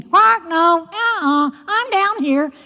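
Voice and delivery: high, fast croaky frog voice with quark sounds; a cheeky frog scolding the girl; croaking frog. Acted. Frog speaks.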